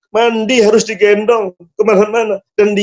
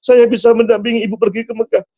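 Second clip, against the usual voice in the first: acted weeping prayer; 4 semitones higher than usual. Son begs God to take mother on hajj, mildly tearful. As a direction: plead to God with a touch of tears. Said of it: "Dia nangis pada Allah".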